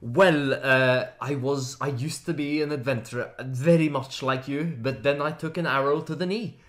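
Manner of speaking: lightly voiced Nordic ex-adventurer; understated Norwegian accent. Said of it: "can you tell us about why you're no longer an adventurer".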